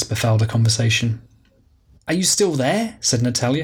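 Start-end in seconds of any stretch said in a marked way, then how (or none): 2.1-3.0 impatient, pitch up; demanding an answer down the phone; frustrated. Acted.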